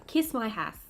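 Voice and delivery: shade name minus the Australian accent. Shown as a demonstration. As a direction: try Kiss My Ass again without sounding Australian. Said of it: "I can't say that in an Australian accent".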